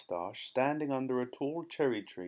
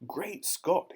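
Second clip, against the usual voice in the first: high, startled exclamation; staggered, high-pitched cry; astonished gasp; 8 semitones higher than usual. A narrator's reading. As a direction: exclaim in utter shock. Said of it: "he gasped".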